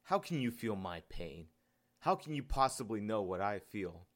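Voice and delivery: understated indignant outburst; snapping. Acted. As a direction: snap back in bitter disbelief. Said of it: "The man snapped".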